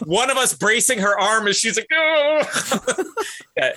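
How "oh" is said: high mock moan of pain; imitated pained groan. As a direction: groan as if being hoisted up hurt.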